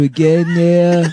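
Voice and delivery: slow, slurred caricature voice; lightly put-on mock-politician voice; Donald Trump. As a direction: drag out the slow-witted parody. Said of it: "Trump with a retarded voice".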